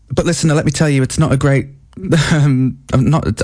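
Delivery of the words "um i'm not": suppressed giggle. Real, not acted. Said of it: "I don't know why I'm laughing".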